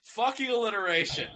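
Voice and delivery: loud frustrated swearing; exasperated curse. Real, not acted. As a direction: blurt it out, fed up. Frustrated outburst at tongue-twister.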